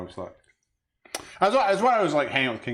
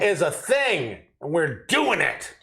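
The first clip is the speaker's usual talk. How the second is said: mock announcement; 4 semitones higher, slower than usual. Mock announcement continues after interruption.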